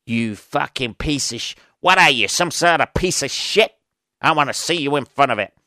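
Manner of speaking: mock New York boss, insulting; hammed-up New York bluster; dodgy New York accent. Boss scolding someone who wants Zoom, dodgy New York accent. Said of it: "Dodgy New York accent there".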